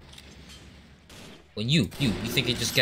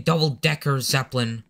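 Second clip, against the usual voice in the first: "double-decker Zeppelin" spelled out firmly, a touch louder; emphatic clarification; 2 semitones higher, 4 dB louder than usual. Real, not acted. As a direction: stress each word of "double-decker Zeppelin" for the record. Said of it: "for the record, I'm saying".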